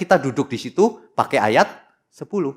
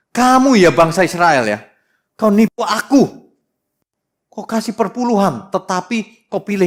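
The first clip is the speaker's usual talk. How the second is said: angry God scolding; 5 semitones higher, 4 dB louder than usual. Acted. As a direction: scold the nation like a furious God. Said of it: "Ini Tuhan marah-marah loh ini". (Tuhan memarahi bangsa Israel, keras dan lambat)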